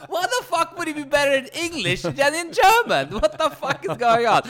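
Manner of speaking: hammed-up furious yell; mock outrage. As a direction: rant it like a baffled movie villain. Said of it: "He's like".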